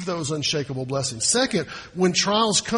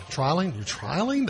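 doubtful questioning. Shown as a demonstration. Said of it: "that's not good English".

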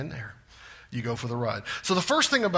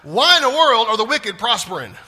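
louder and higher, pressing; bold complaint; 5 semitones higher, 9 dB louder than usual. Retold or imitated. Jeremiah demanding why the wicked prosper, louder. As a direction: demand the answer from God. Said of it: "He goes".

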